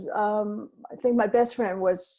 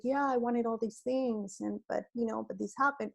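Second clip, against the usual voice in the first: sad telling; 2 semitones higher, 6 dB quieter than usual. Retold or imitated. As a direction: sigh it out as a letdown. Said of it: "sad at the party telling".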